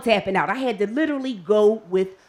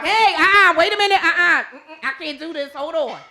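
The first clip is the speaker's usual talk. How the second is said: mock panic; 7 semitones higher, 4 dB louder than usual. Panicking stuck on rock.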